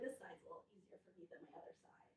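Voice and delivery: quick hushed aside; whispering. Real, not acted.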